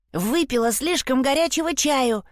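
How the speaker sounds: squeaky put-on voice to pass as Nora; strange falsetto. A narrator's reading. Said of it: "странный фальцетик".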